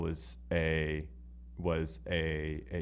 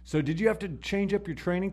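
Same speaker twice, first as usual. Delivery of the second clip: interviewer voice; 11 semitones higher than usual. Retold or imitated. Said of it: "Joe Rogan was like".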